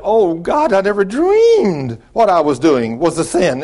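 dramatised gasping "oh, God" confession; shocked realisation. Retold or imitated. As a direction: act out her sudden horror at herself. Woman realises her sin, retold.

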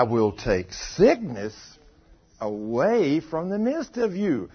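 slow, weighty Bible reading; deliberate preacher reading scripture. Real, not acted. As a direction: read the verse out slowly, stretching the key words. Reads scripture aloud to congregation.

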